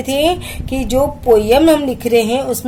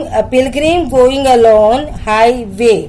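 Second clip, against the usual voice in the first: slow line reading; much slower than usual. Shown as a demonstration. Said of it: "study the syllable structure".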